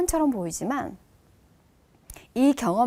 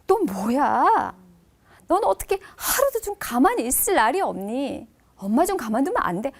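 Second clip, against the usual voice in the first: a dragged-out annoyed snap from a worn-out mom; exhausted mother fed up with her crying child; irritated tired mother. Retold or imitated. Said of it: "엄마가".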